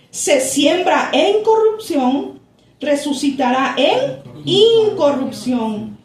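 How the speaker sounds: pastor reads verses to the congregation, solemn and measured; solemn scripture reading. Acted.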